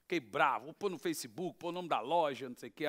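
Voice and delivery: ordinary talk, nothing marked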